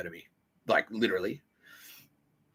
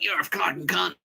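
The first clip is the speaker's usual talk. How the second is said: mock screaming abuse; 8 semitones higher than usual. Customers screaming in his face, mock yell. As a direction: imitate a screamer without full volume. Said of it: "get people, like, screaming in my face".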